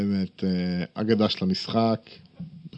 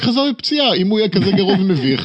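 raised voice, pitch jumps high; heated; 9 semitones higher, 6 dB louder than usual. Real, not acted. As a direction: push back hard, louder and higher. Heated basketball argument, S0 objects.

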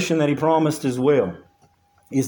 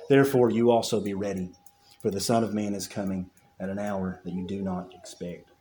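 scripture reading; 4 semitones lower, 4 dB quieter than usual. Acted. Reads scripture aloud to congregation.

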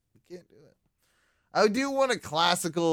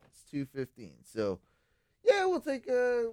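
slurring, tipsy and rambling; 7 dB quieter than usual. Real, not acted. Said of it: "I'm pretty drunk".

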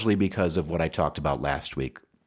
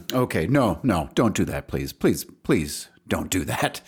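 mock self-scolding. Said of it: "That is no way to start a podcast".

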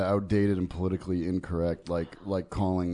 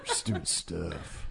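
low, very slow put-on voice; a hint of a Southern drawl, dragged; mock gruff drawl; 4 semitones lower, 8 dB quieter, much slower than usual. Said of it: "With the other accents".

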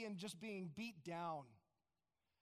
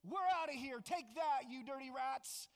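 louder jeering send-off; defiant taunt; 2 semitones higher, 4 dB louder than usual. Retold or imitated. Israelites jeering at the Egyptians as they leave, mild defiant taunt. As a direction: sneer it on the way out. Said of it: "defiant, high-handed".

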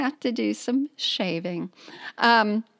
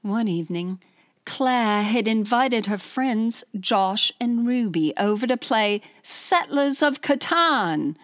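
lightly put-on British accent; retry the letter in a British accent. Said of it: "here's my British accent".

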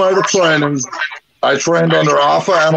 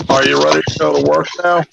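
monotone voice; much faster than usual. Retold or imitated. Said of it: "very monotone voice".

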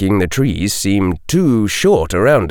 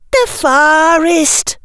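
much higher, slow frightened gasp; 3 dB louder, much slower than usual. A narrator's reading. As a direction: gasp it out in alarm. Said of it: "gasped Tracy".

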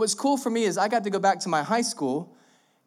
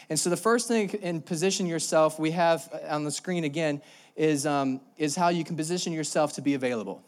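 out of breath. Real, not acted. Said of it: "I'm out of breath right now".

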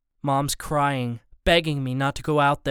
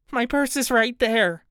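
higher, trembling-edged woman's voice; frightened wife; 9 semitones higher than usual. A narrator's reading. Missus Borden offers her purse to the robber. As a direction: offer it up quickly in fear.

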